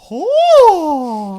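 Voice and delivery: high, loud gasp of surprise; loud surprised oh. Retold or imitated. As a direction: shout it in shock. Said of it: "I was like".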